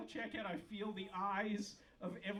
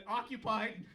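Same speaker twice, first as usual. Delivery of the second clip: cantaloupe answering; 6 dB louder than usual. Pretend. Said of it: "It's not like it's gonna be like".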